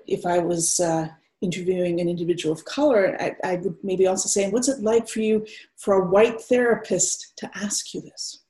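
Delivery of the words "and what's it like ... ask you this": undefended, open invitation to talk; relaxed, open. Acted. White therapist asking a client of color, relaxed and open. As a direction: ask openly, with room for pauses. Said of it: "there's a sort of quality of undefendedness".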